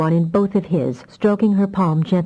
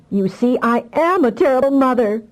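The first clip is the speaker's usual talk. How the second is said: wailing; 7 semitones higher than usual. A narrator's reading. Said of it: "she wailed".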